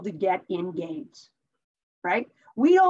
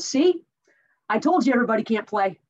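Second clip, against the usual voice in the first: triumphant call to the stands; 4 dB louder than usual. Retold or imitated. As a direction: call it up to the crowd in the stands, vindicated. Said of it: "looks up to the stands and he says".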